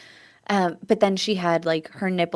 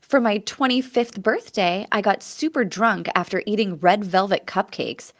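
reading aloud. Acted. Reading a listener story aloud.

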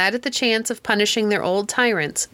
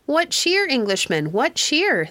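high, raised hail across the water; calling out again; 6 semitones higher, slower than usual. A narrator's reading. Pequots keep hailing the silent English boats, high mild shout. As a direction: repeat the call, lightly shouted. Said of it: "came running along the waterside shouting".

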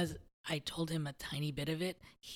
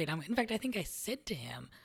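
ordinary talk

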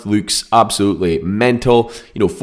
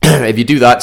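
throat catching, choking; choking on something mid-sentence; 3 semitones higher, 6 dB louder than usual. Real, not acted. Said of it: "bloody hell, I'm choking this morning".

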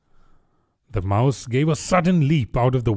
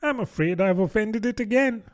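mildly rueful, higher voice; a touch of dismay, pitched up; sorrowful tone; 8 semitones higher than usual. A narrator's reading. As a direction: admit the blunder with regret. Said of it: "in a sorrowful tone".

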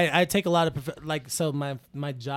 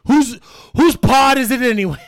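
louder, changed voice; host voice; 3 semitones higher, 9 dB louder than usual. Pretend. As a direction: announce like a game show title. Riffing on show title.

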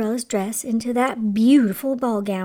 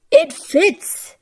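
higher, louder joyful exclamation; happy cry; 6 semitones higher, 6 dB louder than usual. A narrator's reading. Prince finds the slipper fits, crying happily. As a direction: cry out in storybook delight. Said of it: "he cried happily".

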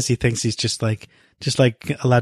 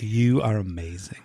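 whisper; 2 semitones lower, 5 dB quieter than usual. Real, not acted. Awed whisper to friend.

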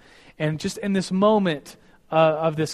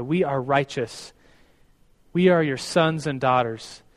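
slightly lowered, measured praying voice; earnest prayer. Real, not acted. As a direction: address God sincerely with falling phrase ends. Leads the closing prayer.

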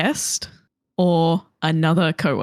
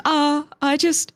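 gently, higher and slow, with a little laugh; gentle letdown; 5 semitones higher, slower than usual. Retold or imitated. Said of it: "like, very gently".

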